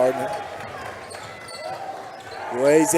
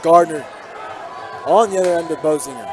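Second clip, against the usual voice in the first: steady broadcast call, lifting on each drive; live play-by-play; 4 dB louder than usual. Real, not acted. Commentator calling the game for listeners at home, play-by-play.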